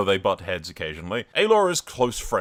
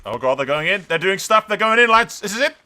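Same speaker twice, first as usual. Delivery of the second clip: rising from eager to yelling, much higher and louder; excited shout; 10 semitones higher, 9 dB louder than usual. Real, not acted. Gamer cheering his army into battle, excited yelling. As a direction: hype the charge like a fan. Battle finally starts, hyping.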